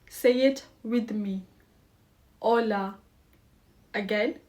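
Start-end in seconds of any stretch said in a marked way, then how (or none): 2.4-2.9 hola with no H sound, opening straight on the O; silent H. Shown as a demonstration. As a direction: say "Hola" as "OH-la", the H left mute. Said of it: "The H is silent".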